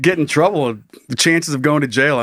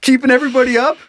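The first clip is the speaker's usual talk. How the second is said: juggler voice; 9 semitones higher than usual. Pretend. Voicing the juggler menace.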